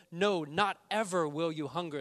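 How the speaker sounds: loud ringing "No, not ever"; loud sermon emphasis; emphatic. Acted. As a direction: drive home "No, not ever" at full voice. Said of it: "there's a double negative".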